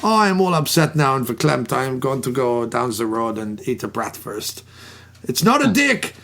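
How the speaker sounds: a hammed-up German accent, all verklempt; mock German sausage-lover voice; bad German accent, mock upset; atrocious German accent. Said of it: "he does this, uh, atrocious accent".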